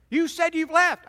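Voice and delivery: high, indignant wife's retort; acted accusation. Upset wife confronting husband about his note, acted accusation. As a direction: throw it back at him, high-pitched.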